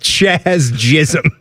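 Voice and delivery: Chaz Jism with the first sounds swapped; Ch opens Chaz, J opens Jism; mispronounced name. Retold or imitated. Co-host repeating the broadcaster's slip, mispronounced name. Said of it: "He called him".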